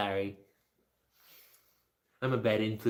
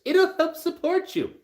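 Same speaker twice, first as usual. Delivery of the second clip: sarcastic; 4 dB louder than usual. Real, not acted. Sarcasm about Social Security.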